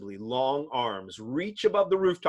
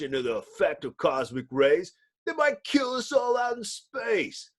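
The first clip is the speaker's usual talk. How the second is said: angry. Acted. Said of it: "angry Ben Grimm confronted".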